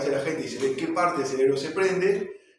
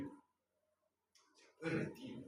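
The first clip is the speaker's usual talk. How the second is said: slow whispered repeat; 2 semitones higher, 17 dB quieter, much slower than usual. Shown as a demonstration. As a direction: breathe the line out slowly. Repite la frase en susurro. (susurro lento, casi sin voz)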